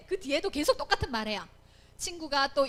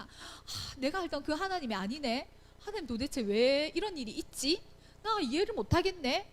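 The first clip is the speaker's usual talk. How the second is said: mild, acted-out sigh of bewilderment; lamenting prayer. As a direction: open on a sigh, then puzzle aloud to God. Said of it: "이렇게 우리가 기도하며 탄식할 수 있잖아". (탄식하듯 가볍게 흉내 낸 기도)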